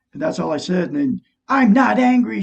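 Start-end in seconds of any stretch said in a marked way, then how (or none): 1.5-2.4 retold denial. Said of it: "she says".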